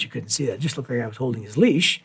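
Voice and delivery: ordinary talk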